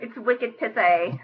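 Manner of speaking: put-on slow, laughing Boston accent; laughing through a slow Boston accent; mock Boston slang. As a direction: drag out wicked pissy like a local. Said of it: "that Boston accent".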